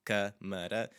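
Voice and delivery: "câmara" with a closed nasal first syllable. Shown as a demonstration. Teacher modelling "câmara" for the class, stressed first syllable. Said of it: "close up that sound a little bit".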